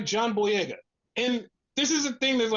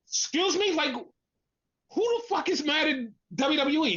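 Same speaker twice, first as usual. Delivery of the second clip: incredulous; 5 semitones higher than usual. Acted. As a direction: react in indignant disbelief. Incredulous reaction to the claim.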